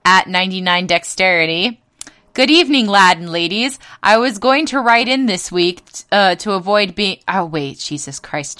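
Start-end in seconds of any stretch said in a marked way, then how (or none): 2.3-7.2 hammed-up posh British voice; put-on British accent, lightly done; mock British accent. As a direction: read it like a posh English gent. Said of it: "I can only do this with this accent".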